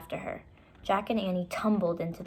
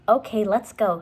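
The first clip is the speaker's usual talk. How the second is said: resigned; 2 semitones higher, 8 dB louder than usual. Acted. Jack gives in loudly.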